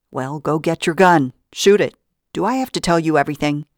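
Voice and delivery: loud, sharp outburst, fast at the end; angry order. Acted. Vida snaps at Pearlie to shoot the dog, angry. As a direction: lose patience and bark the order.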